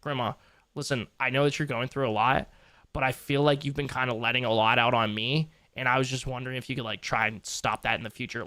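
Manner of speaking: lightly voiced kind grandson; gentle boundary-setting. Shown as a demonstration. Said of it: "Be like".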